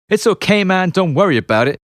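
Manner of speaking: mocking catchphrase. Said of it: "a phrase I hated".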